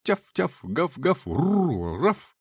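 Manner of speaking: yappy barks then slow, drawn-out woofs; imitated dog barks. A narrator's reading. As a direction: bark like a pack of dogs. Dogs barking in story scene.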